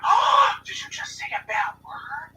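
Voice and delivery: high, loud, slow scandalized teacher voice; teacher catching a kid cursing, high and loud; shocked teacher. Retold or imitated. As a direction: gasp it out like a horrified teacher. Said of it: "the teacher was like".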